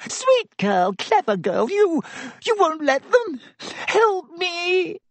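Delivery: high, sobbing, wheedling plea; desperate crying Pettigrew. Acted. Pettigrew clutching Hermione's robes, a high sobbing plea. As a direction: beg her through tears, high and frantic.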